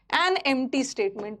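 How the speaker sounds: each word drawn out slowly; slow dictation. Shown as a demonstration. Teacher dictates answer slowly. (धीरे-धीरे बोलकर लिखवाना)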